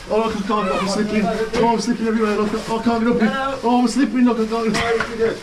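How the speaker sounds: mock panic, slipping on the rope; hanging on for dear life. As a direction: pretend to struggle and slip. Acting struggling victim on rope.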